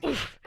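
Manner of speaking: short "oof" of a belly hitting a tree; little winded noise; imitated impact grunt. Shown as a demonstration. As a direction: demonstrate the thump with an oof. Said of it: "It's like a".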